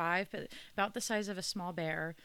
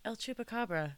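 NPR voice. Acted. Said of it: "I love your N P R voice".

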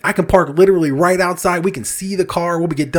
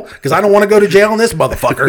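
laughing; 5 semitones higher, 5 dB louder than usual. Retold or imitated. Retold plea to cashier.

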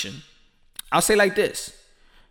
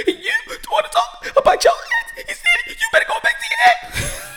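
high shrill mock wife yelling; wife hammed-up furious shout; angry wife; 10 semitones higher than usual. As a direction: scold him like an offended wife, laughing through it. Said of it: "she's gonna be like".

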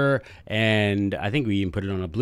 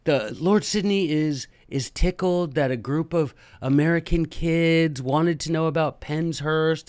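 a hint of a polite British secretary, slowed; lightly voiced prim English secretary; light British accent; 5 semitones higher than usual. Teacher quoting the lord's secretary, light British accent. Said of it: "She's like".

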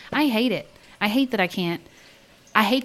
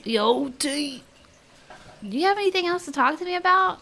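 high, fast New Jersey mob-wife voice; a mock Sopranos New Jersey accent, hurried; 8 semitones higher than usual. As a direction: tease him in a put-on New Jersey accent. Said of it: "do a New Jersey accent".

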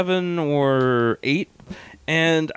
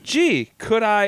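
put-on child voice; 6 semitones higher, slower than usual. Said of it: "I'm like".

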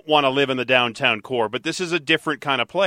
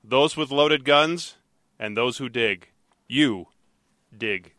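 Clint Eastwood quote; 3 dB quieter than usual. Retold or imitated. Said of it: "the actual quote from the movie".

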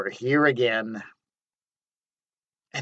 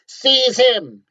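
high, loud shout; an angry king yelling to his bodyguard, much higher; king's command; 10 semitones higher, 6 dB louder than usual. Acted. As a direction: bark the order at the guards. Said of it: "he cried".

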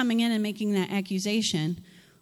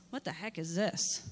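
puzzled muttered question; 4 semitones lower, 7 dB quieter than usual. Acted. Eli puzzled at what he sees.

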